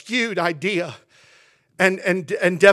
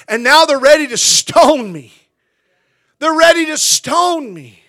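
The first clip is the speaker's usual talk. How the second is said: mild mock shout; 4 semitones higher, 5 dB louder than usual. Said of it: "Moses at one point said".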